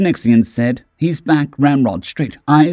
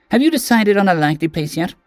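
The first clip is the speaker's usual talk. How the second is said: timid small creature; 8 semitones higher, faster than usual. Acted. Small Keswick greeting the towering Synexian, high and timid. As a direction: sound small and hopeful.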